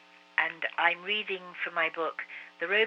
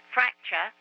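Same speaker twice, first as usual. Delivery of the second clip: calling down; 5 semitones higher, 5 dB louder than usual. A narrator's reading. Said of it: "he called down".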